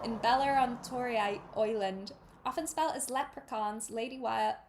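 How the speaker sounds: halting Irish, retrying words; attempted Irish accent. Shown as a demonstration. Reader stumbling through names, halting Irish accent. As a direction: feel for the Irish vowels as you read. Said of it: "read that page in my best Irish attempt".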